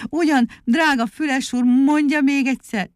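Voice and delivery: high, coaxing request; flattering plea. A narrator's reading. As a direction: sweet-talk him into an encore. Muki coaxes an encore from Füles. (hízelgő, magas hangú kérlelés)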